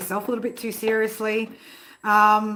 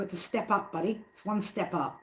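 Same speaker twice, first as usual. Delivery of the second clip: soft coaxing to pet; 6 dB quieter than usual. Real, not acted. Coaxing cat up to window.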